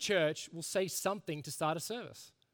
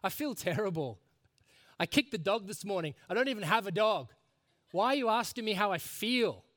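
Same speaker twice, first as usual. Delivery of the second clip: retold grumpy outburst, building higher and louder; blunt honesty; 4 semitones higher, 4 dB louder than usual. Preacher retells a blunt reply to a cheery welcome, exasperated. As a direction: imitate an exasperated churchgoer, rising in pitch and force. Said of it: "he says, honestly, he's like".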